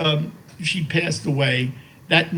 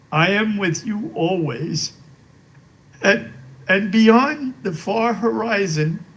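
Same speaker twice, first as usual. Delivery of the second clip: reading a poem aloud. Real, not acted. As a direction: read the card's verse gently, letting each line land. Reads memorial poem from a card.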